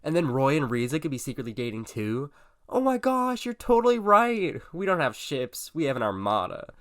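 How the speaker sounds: very high, loud fangirl squeal; hammed-up high-pitched gushing; dramatic excited shout. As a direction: shout it in giddy, over-the-top excitement. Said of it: "gasped dramatically and shouted".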